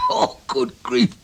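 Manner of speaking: slow whispered groan; whispered exasperation. Real, not acted. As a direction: gasp it out after coughing. After coughing fit.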